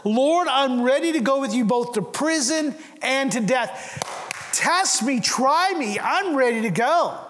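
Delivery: a hint of swaggering bravado, lifted and ringing. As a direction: boast it like a man sure he won't fail. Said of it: "Peter declares in a bravado voice here".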